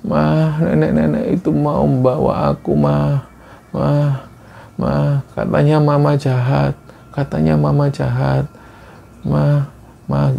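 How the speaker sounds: put-on delirious child. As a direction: murmur like a child talking in fever sleep. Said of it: "terus mengigau seperti itu".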